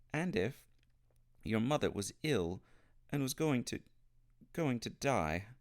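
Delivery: put-on a miserable boy pouring it all out, fighting back crying; wound up and near tears. A narrator's reading. Boy tells Polly about his dying mother, near tears. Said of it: "the boy was too wound up".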